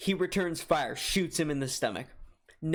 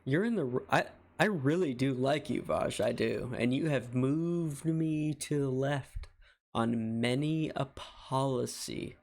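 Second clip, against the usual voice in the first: tipsy. Real, not acted. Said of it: "little tipsy, a little heated".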